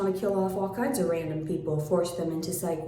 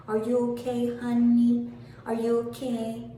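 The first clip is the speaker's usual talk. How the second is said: sarcastic sing-song, pitched up; mock concern; 4 semitones higher than usual. Mocking a critic with fake concern. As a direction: pretend to worry, dripping with sarcasm.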